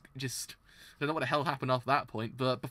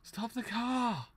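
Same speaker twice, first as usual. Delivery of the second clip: panicked scream; 8 semitones higher, 3 dB quieter, much slower than usual. Acted. Character screams at kidnappers.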